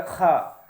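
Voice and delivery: खा with a rasp like clearing the throat; throat-clearing kha. Shown as a demonstration. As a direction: give खा a throaty clearing scrape. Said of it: "खखार करके".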